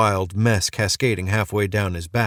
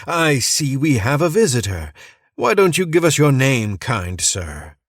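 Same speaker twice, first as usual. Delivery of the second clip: lightly voiced crazed preacher, a bit higher; a hint of a manic cult leader, singsong; unhinged preacher; 6 semitones higher, 3 dB louder than usual. Crazed preacher welcoming a stranger to church, lightly manic. Madman greets visitor in church.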